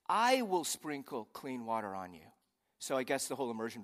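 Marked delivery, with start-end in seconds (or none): 0.1-2.3 voice of God. Acted. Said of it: "this is God speaking".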